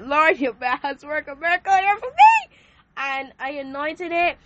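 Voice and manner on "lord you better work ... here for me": loud, high plea to God; pleading cry. Retold or imitated. Retelling her prayer to God, loud pleading cry. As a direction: cry out to the Lord for a miracle. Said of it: "so it was like".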